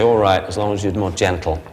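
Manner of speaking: a lightly voiced grudging dog; mildly grudging, giving in; other dog's voice. Trainer voicing the bitten dog forgiving Jack, lightly grudging. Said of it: "the dog that he bit will say".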